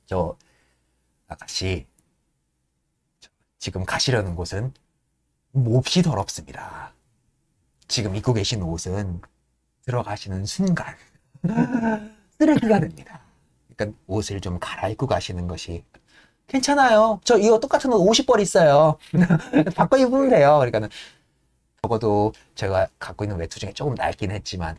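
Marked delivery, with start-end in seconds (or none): 0.1-15.8 lower, softer, deferential servant; an engineer politely advising a rich young lady, low and soft. Retold or imitated. Servant cautiously warns the lady. 16.5-20.6 much higher, carefree heiress voice; breezy rich girl. Retold or imitated. Lady brushes off the warning.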